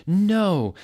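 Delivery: high, loud "No"; hammed-up scream. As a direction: cry out in protest. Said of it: "we screamed".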